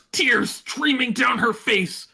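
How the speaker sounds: slow, high, impassioned narration; dramatic narration. A narrator's reading. Narrator on Twilight's angry tears, overwrought.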